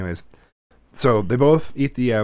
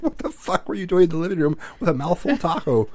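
high, laughing through the question; can barely get it out for laughing; laughing disbelief; 8 semitones higher than usual. Retold or imitated. Dad retelling scolding his son, laughing through it. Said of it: "I'm like".

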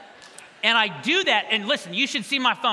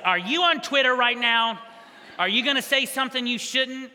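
raised, pointed wife voice; wife's suspicious question; 3 semitones higher, 4 dB louder than usual. Retold or imitated. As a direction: catch him red-handed, louder. Wife catching him on Twitter.

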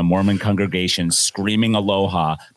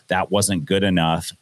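demanding preacher; slower than usual. Pretend. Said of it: "you say".

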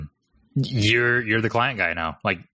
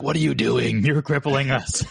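laughing mock plea; 4 semitones higher than usual. Owner teasing partner who turned clients away, laughing plea. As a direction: plead through laughter, slowing down. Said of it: "I'm just, like, over there melting".

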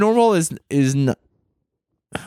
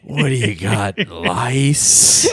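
put-on old man voice; 5 semitones lower, much slower than usual. Continues the bigoted old man bit.

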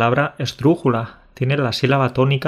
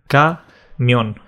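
syllable by syllable. Shown as a demonstration. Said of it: "separando sílaba por sílaba".

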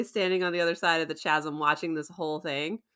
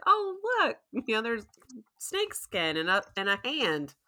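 high, dreamy distracted Steven voice, then fast; mock dazed Steven; 4 semitones higher than usual. Podcaster imitating Steven's distracted rambling, airy and dreamy. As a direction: play Steven lost in shiny things.

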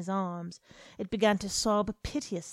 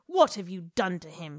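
angry accusation; 4 dB louder than usual. Acted. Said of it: "she cried".

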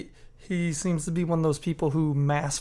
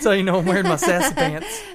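sassy, raised and loud; 4 semitones higher, 5 dB louder than usual. Pretend. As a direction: strut it out with sass. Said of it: "Steven getting his sassy pants on".

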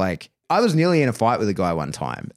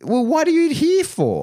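high, slowed, disbelieving challenge; retold indignant retort, pitched well up and drawn out; incredulous retort; slower than usual. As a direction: throw the question back in exasperated disbelief. Retold exasperation at trial lady.

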